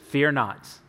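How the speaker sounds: low, gentle reassurance on "Fear not"; calming. Acted. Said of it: "said in a calming way".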